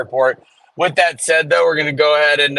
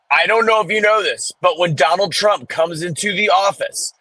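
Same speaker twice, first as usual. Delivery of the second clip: higher, mildly hammed-up rant; radio caller ranting about Trump, lightly mimicked; imitating ranting woman; 3 semitones higher than usual. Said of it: "the angry black woman that went off on that radio show".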